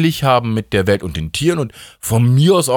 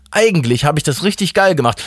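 raised, moderately excited self-praise; pleased realisation; 6 semitones higher than usual. Acted. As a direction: arrive at it with growing pride. God's first, milder self-praise. (angeregt, mit erhobener Stimme)

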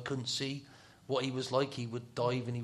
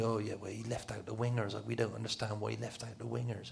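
softly muttered, understated grumble; mild moaning; 6 dB quieter than usual. Retold or imitated. Opposing player complains about the team selection, mildly moaning. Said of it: "They were all moaning".

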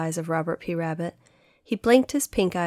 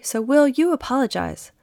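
scolding; 6 semitones higher, 3 dB louder than usual. Acted. Katy orders Will to apologize.

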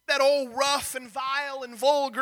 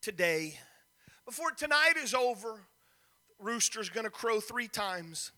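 sad gentle warning; 2 semitones lower, 5 dB quieter than usual. Acted. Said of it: "kind of gives a sad smile and says".

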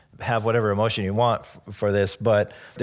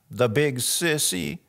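put-on higher, slow small-child voice; lightly acted shaky child's mutter, drawn out; shaky little boy; 5 semitones higher, slower than usual. Little boy left alone at bedtime grumbling about dad, shaky voice. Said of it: "in kind of this shaky voice".

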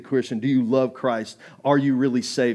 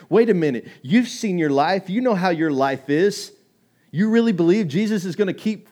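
devil taunting; 3 semitones higher, 4 dB louder than usual. Acted.

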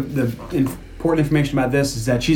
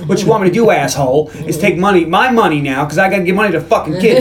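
angry outburst; 4 semitones higher than usual. Retold or imitated. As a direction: build from sarcasm to exasperated high-pitched ranting. Acts out mother's outburst at principal.

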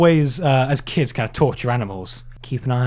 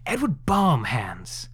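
slow breathy whisper of the name; 5 dB quieter, much slower than usual. Pretend. Hosts joking about a monster name, slow whisper. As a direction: hush it out slowly.

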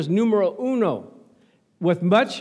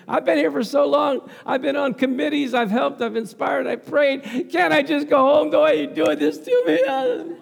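raised, pleading whine to God; mock plea, raised and laughing; pleading complaint; 5 semitones higher than usual. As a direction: beg to go home, half laughing. Pleading prayer voiced in sermon.

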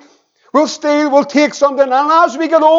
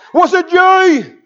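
higher, drawn-out mock-stern question; pressing dad; 4 semitones higher, slower than usual. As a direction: act out a dad slowly pressing his child to confess. Dad presses his small son.

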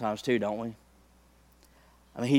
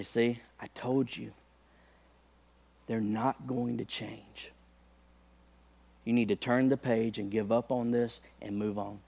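devil whispering doubt; 6 dB quieter than usual. Retold or imitated. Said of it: "He'll whisper to you".

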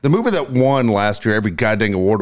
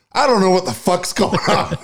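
retold yell; 10 semitones higher than usual. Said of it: "Jeff just yells out".

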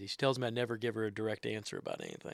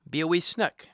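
loud, raised call to the table; mealtime call; 6 semitones higher, 10 dB louder than usual. Shown as a demonstration. Parent announcing it's time to eat, loud call. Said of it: "So I'll yell up the stairs".

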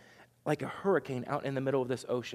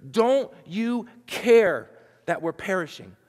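desperate cry; 5 semitones higher, 7 dB louder than usual. Retold or imitated. Disciples waking Jesus, crying out loudly in desperation. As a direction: wake him up with a desperate plea. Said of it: "they wake up Jesus and they say".

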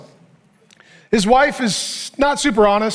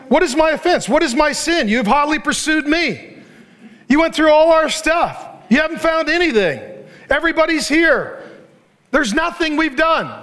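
acted indignant protest, slightly raised; pointed, aggrieved challenge in short bursts; angry berating; 3 semitones higher than usual. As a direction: berate him with mild heat. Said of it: "Jacob became angry and berated Laban".

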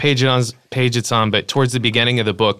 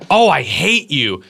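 exasperated groan; 3 semitones higher, slower than usual. Retold or imitated. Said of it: "said, to Daisy".

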